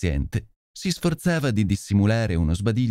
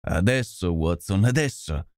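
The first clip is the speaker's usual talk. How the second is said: frantic energy; 3 semitones lower than usual. Acted. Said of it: "esclamò Holmes con un'energia frenetica".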